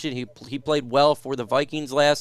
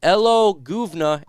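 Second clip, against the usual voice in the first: playful mock Cockney greeting, hello pitched up high and loud; imitated Cockney; 4 semitones higher, 5 dB louder than usual. Host reads a viewer's request for Ant-Man, imitated Cockney. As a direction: put on a light Cockney. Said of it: "Can you ask Ant-Man to say".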